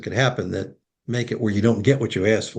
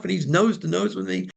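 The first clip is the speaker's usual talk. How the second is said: usual speaking voice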